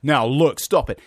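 high, loud, wavering timid plea; a nervous man trying to stop a fight; tremulous frightened voice. Retold or imitated. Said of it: "his very tremulous, frightened voice".

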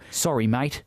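put-on casual Australian accent with a rising end. Echoing co-host's apology, light Australian accent. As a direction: echo it back in an Australian accent. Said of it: "say that in an Australian accent".

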